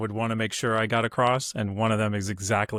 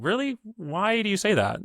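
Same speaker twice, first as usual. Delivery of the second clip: challenging question; 10 semitones higher than usual. Real, not acted. Challenging people who say they can't.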